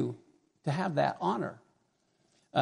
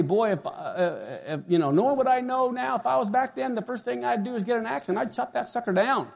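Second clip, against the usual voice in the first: smug; 4 semitones higher than usual. Retold or imitated. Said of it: "I used to smugly say".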